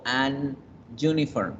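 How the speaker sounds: "an uniform" con la ene chocando contra la Y; artículo incorrecto. Shown as a demonstration. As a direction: separa "an" de "uniform", sin fluidez. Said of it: "yo no digo". (forma incorrecta, cortada)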